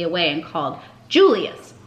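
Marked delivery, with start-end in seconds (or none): 1.1-1.7 higher, louder call. A narrator's reading. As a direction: call the pupil sharply. Teacher calls a pupil.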